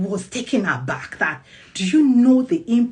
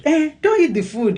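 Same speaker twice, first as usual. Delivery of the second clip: harsh order; 8 semitones higher, 6 dB louder than usual. Retold or imitated. Mom's harsh order to child.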